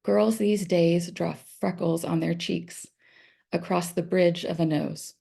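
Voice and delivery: measured reading with pauses at line breaks; careful, evenly paced recital of verse; poetry reading. Acted. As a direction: read your poem aloud, phrase by phrase. Reads own poem aloud.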